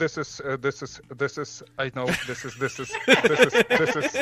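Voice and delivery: laughing, stammering, halting delivery of this is.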